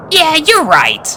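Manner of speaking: put-on high-pitched boy pony, bossy; young colt voice. A narrator's reading. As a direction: play a cocky young colt. Snips cheered up.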